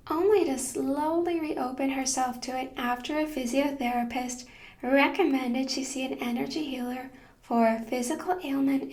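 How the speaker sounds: measured host read, evenly paced phrases; scripted podcast intro. Acted. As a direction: read a prepared guest introduction to listeners.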